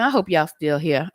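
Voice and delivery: real laugh running through the words; amused, apologetic chuckle. Real, not acted. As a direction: say it while starting to crack up. Laughs while apologizing to viewers.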